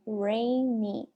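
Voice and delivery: "Rainy" sounded out as "ray-nee"; final Y as "ee". Shown as a demonstration. Teacher showing the final Y, "Rainy" said "ray-nee". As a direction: let "Rainy" end on a clear "ee". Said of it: "o Y vai ter som de I".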